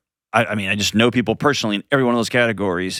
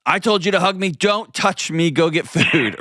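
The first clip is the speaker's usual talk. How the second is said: much higher, slowed snappy wife voice; wife changing her mind mid-period, hammed-up; mock moody demand; 9 semitones higher than usual. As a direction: play the changeable wife for laughs. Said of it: "feel free to say".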